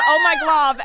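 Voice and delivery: put-on Valley Girl voice. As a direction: play the bubbly sorority girl. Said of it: "she has, like, this Valley Girl voice".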